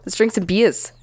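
Australian accent. Shown as a demonstration. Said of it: "in an Australian accent".

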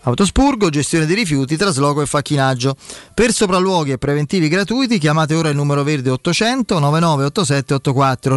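radio ad read, upbeat and clear; infomercial. Acted. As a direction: sell it like a live radio spot. Host reads sponsor ads live.

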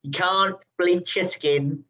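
put-on amateur Kiwi accent, pitched a bit up; New Zealand accent. Taika Waititi imitated talking to Christian Bale, New Zealand accent. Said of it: "trying to do a New Zealand accent".

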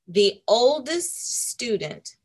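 title read slowly and grandly. Shown as a demonstration. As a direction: announce The Oldest Student slowly. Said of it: "This one is going to be a big surprise".

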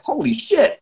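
high amazed exclaim; astonished dad. Retold or imitated. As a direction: gasp it out in awe.

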